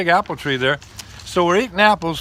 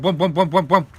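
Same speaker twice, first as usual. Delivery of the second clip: imitated bumping. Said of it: "I hear this bump".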